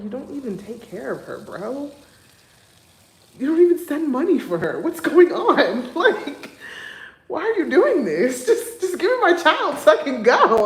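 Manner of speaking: loud, high, exasperated pleading at her ex; indignant rant, high and loud; heated outburst. Retold or imitated. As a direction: let it boil over at him, voice climbing.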